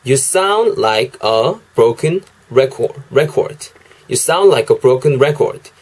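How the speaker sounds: slow, careful "You sound like a broken record"; teacher modelling "You sound like a broken record"; slow English demo. Shown as a demonstration. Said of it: "이렇게도 발음하실 수 있다는 거".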